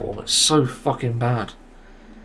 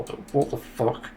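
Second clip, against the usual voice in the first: whispered disbelief; 6 dB quieter than usual. Real, not acted. Disbelief at another disconnect.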